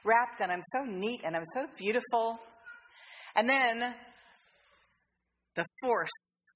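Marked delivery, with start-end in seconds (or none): 0.0-2.4 lightly voiced pleased little bud; a hint of dainty vanity; self-admiring flower bud. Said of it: "I think it's going".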